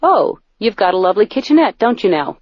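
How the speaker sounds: a light put-on English accent, posh and pleased; mock English accent. Shown as a demonstration. Comedian showing readers how to sound smart, mild English accent. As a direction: show off the kitchenette with a hint of English accent. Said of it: "to sound a little bit English".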